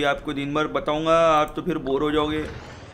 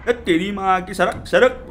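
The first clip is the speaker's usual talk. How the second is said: raised, higher irritated yell; road-rage cursing; 4 semitones higher, 4 dB louder, slower than usual. Pretend. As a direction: curse someone out of the way. Driver cursing at someone in the way. (झुंझलाकर गाली के साथ चिल्लाना)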